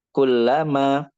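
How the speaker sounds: "kullama" drawn out as two words, kulla and ma; separated. Shown as a demonstration. Teacher demonstrating separated words, "kullama" said as kulla, ma. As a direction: set "ma" apart in "kullama". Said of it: "dari suaranya pun juga terpisah".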